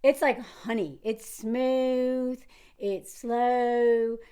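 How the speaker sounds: smooth, drawn-out Southern vowels; rich Southern accent. Shown as a demonstration. Vlogger describing a character's accent, lightly demonstrating the honeyed Southern drawl. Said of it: "her accent is like".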